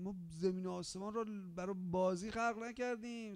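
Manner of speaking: ordinary delivery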